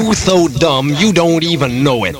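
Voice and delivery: hammed-up African American dialect, slowing at the end; put-on dialect. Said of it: "talk in a Negro accent".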